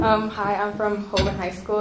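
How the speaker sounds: projecting clearly to the room; outside voice. Real, not acted. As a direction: speak up so the back hears. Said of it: "You're gonna have to use your outside voice".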